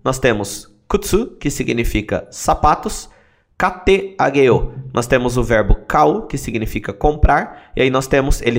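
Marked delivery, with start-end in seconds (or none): 3.6-4.7 slow, syllable by syllable; slow drill. Shown as a demonstration. Teacher drilling the phrase for students, slow and deliberate. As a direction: spell it out slowly for learners. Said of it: "teacher repeats phrase slowly".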